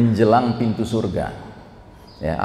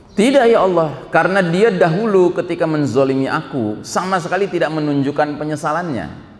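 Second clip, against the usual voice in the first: raised, firm voice of a wronged servant; indignant refusal; 3 semitones higher than usual. Acted. The wronged servant refusing God, raised and indignant.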